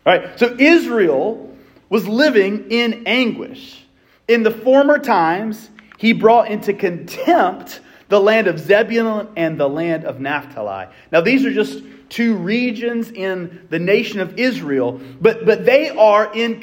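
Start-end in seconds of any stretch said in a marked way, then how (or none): 4.3-10.9 scripture reading. Acted. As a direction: read it like a verse from the pulpit. Reads scripture slowly.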